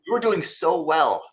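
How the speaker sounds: mock disappointment through laughter; laughing tease. Real, not acted. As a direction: tease her while laughing.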